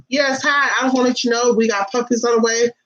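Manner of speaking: neighbor at the door. Retold or imitated. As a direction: chirp it like a too-friendly neighbor announcing puppies.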